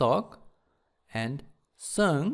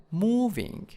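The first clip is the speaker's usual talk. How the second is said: "moving" stressed on MOV; stress on first syllable; 5 semitones higher than usual. Shown as a demonstration. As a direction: draw out the first syllable of "moving", then fall. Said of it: "in the first syllable".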